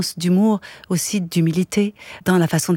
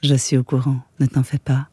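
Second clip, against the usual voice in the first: narration de roman; 3 semitones lower than usual. A narrator's reading. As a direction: lecture posée et égale d'un récit. Lecture d'un roman à voix haute. (lecture de roman à voix haute)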